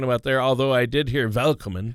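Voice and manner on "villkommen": "Willkommen" opened with a V; "Willkommen" with a crisp V sound. Shown as a demonstration. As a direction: say "Willkommen" starting with a German V, not W. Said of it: "more of a V sound".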